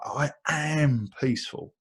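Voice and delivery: "I am peaceful" said firmly with weight on "am"; real determination. Shown as a demonstration. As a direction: state "I am peaceful" like an oath. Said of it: "like, with real determination".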